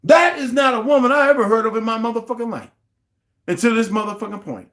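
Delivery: loud, high disbelieving yell; indignant shout at the stream; outraged shout. Real, not acted. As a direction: shout it in disgust. Outraged rant.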